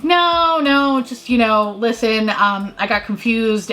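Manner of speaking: high, then slowing, flustered explanation; nervous backpedal; explaining to the driver, flustered. Retold or imitated.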